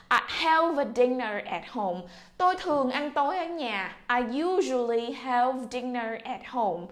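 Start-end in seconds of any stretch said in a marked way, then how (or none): 4.1-6.9 slow, clear model reading; slow model sentence. Shown as a demonstration. Teacher reads the sentence slowly for students to repeat. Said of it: "đọc lại".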